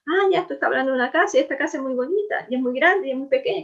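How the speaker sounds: fast, light voicing of a reader catching on; a hint of an eager young reader thinking aloud; imitating the reader. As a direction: rattle it off like a reader who just got it. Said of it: "ese lector diga".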